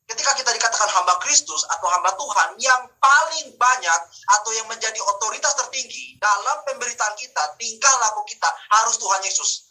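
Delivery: emphatic preaching. Real, not acted. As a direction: declare it firmly to the congregation. Preacher declaring doctrine.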